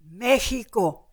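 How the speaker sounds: "Mexico" said as meh-HEE-ko; "Mexico" as meh-hee-ko, imitating the waiters; Vietnamese waiters' pronunciation. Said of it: "that's the way they pronounced it".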